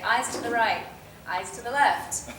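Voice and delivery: lightly voiced set assistant calling directions; matter-of-fact off-camera prompt; PA feeding lines. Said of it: "a P A just going".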